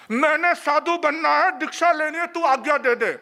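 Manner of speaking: husband insisting loudly to his wife. Retold or imitated. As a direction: push the demand harder the second time. Husband repeats his demand louder.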